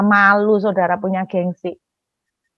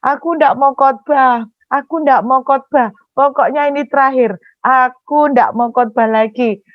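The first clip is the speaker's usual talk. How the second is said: mildly whiny, raised-pitch protest; retold tearful refusal; 3 semitones higher than usual. Wife cries to husband that she quits preaching, mock tearful. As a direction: plead through imitated crying, insisting you quit. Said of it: "saya nangis lagi sama suami".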